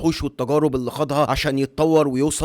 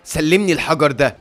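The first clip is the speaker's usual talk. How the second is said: louder, harsh command; angry order; 2 semitones higher, 5 dB louder than usual. Acted. Guard ordering the child to hand over the stone, angry. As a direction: demand the stone angrily. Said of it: "بيبص للطفل غاضبًا".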